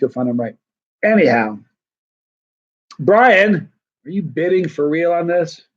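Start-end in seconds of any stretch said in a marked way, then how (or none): 3.0-5.6 calling out. Real, not acted. Calling out to Brian.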